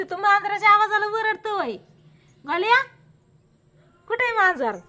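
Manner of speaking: high, coaxing calls to a hiding cat; mother calling the family cat, high and coaxing; high cooing pet talk. Real, not acted. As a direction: coax the cat in a high sing-song.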